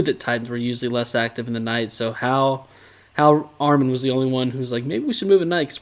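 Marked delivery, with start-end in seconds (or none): 4.8-5.7 mimicked suggestion in higher pitch; lightly put-on, raised voice; mock bright idea. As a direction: quote it like a supposedly clever thought. Repeats the mocked idea as quote.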